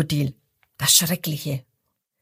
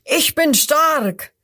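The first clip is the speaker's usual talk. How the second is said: higher, louder, slow proud shout; crocodile roar; 7 semitones higher, 3 dB louder, slower than usual. A narrator's reading. First crocodile shouts at the hyena, loud and slow. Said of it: "Das erste ruft".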